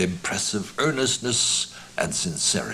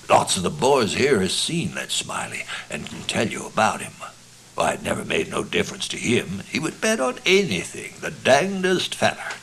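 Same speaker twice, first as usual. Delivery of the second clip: lightly voiced rustic American storyteller; earnest rambling yarn-spinner; 3 dB louder than usual. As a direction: ramble through a tall tale in complete, impressive earnest. Narrator plays the yarn-spinning character.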